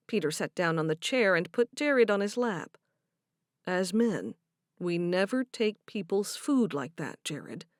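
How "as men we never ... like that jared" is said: calming voice. Acted. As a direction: soothe the boy gently. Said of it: "Peter spoke in a calming voice".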